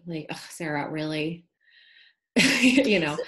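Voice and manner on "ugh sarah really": softer, exasperated eye-roll; a weary, judging "really" with a groan; eye-rolling sigh. Retold or imitated. The critical inner voice rolling her eyes at Sarah. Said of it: "rolling her eyes at me".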